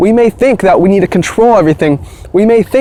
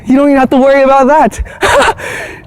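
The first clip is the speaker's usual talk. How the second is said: higher, lilting, rising at the end; playful sing-song; 6 semitones higher than usual. Shown as a demonstration. Vlogger teasing viewers to drop worry, high sing-song. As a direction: sing it lightly to shrug the worry off. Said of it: "repeated line to viewers".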